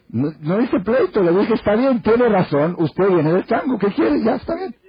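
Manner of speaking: hammed-up "fine, you're right"; mock placating. Man retells placating angry lady. (el novio calma a la señora con voz aguda y lenta)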